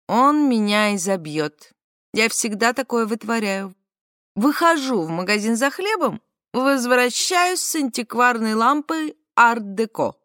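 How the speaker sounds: sassy drag queen. Retold or imitated. Flamboyant customer panics.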